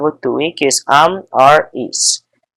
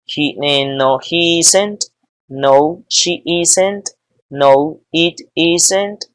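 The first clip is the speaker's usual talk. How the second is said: slow, careful negative answers; patient teacher modelling contractions; slow classroom drill. Shown as a demonstration.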